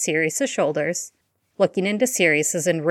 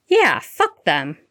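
enthusiastic, slow, louder cheer; gleeful cry; 4 dB louder, slower than usual. Acted. The twins backing Remus before their mother, gleeful cry. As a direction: cheer it defiantly. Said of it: "Fred and George cried".

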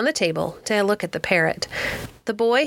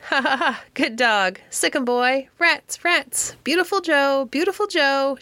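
high, quick parrot squawks; rattling parrot chatter; 6 semitones higher than usual. A narrator's reading. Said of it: "she cried, rattling off the words as fast as she could".

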